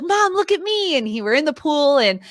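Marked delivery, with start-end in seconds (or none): 0.0-1.0 put-on excited child. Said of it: "He was like".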